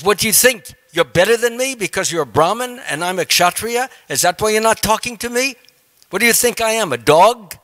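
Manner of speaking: king angrily berating a silent meditating sage; stormy angry king. Retold or imitated. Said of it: "stormy and angry".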